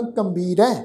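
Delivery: "ਕੰਬੀਰੈ" with a nasal m before the b; tippi nasal. Shown as a demonstration. Teacher modelling the name, "ਕੰਬੀਰੈ" with nasal first syllable. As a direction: close "ਕੰ" on a nasal hum into "ਬੀਰੈ". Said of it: "ਟਿੱਪੀ ਦੀ ਮਾਤਰਾ ਲੱਗੀ ਹੋਈ ਹੈ".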